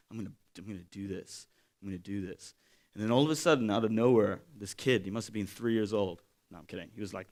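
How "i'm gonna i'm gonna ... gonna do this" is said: self pep talk. Retold or imitated. Psyching himself up, quietly.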